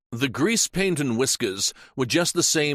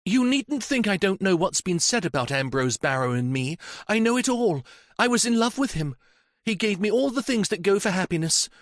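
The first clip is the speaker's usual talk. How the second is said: higher, pouring it all out at once; torrent of words; 9 semitones higher than usual. Acted. Janet to the inspector, pouring out her love for Barrow. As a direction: let the confession flood out, bitter at the end. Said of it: "gave way in a torrent of words".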